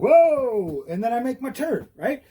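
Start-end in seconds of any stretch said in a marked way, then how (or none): 0.0-0.8 loud, drawn-out whoa that falls away; riding-along whoa, called out; surprised whoa. Shown as a demonstration. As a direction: call out a mock-startled whoa. Acts out swerving while riding.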